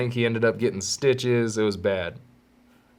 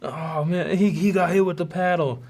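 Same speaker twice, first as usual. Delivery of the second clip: high mock whispering kids; gossiping kids; 7 semitones higher than usual. Classmates gossiping about the paddle, high mock. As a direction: spread the rumor.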